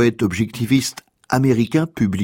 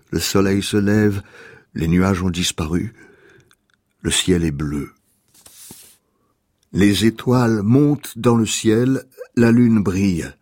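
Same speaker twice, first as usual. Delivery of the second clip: restrained, measured elegy with long pauses; poem reading; 3 semitones lower than usual. Acted. Host reading a poem for a dying mother, restrained poem reading. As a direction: read it line by line, lower than your chat, without pathos. Reads a mourning poem aloud.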